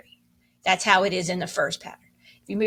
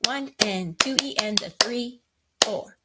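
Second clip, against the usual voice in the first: counting along. Shown as a demonstration. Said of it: "Ready, clap".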